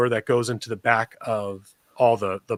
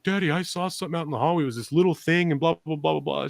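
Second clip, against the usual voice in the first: fast, higher, lightly voiced kid; a hint of a breathless daughter; daughter telling; 4 semitones higher, 3 dB quieter, faster than usual. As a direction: rattle it off like an excited little girl. Daughter Lily reporting a sighting.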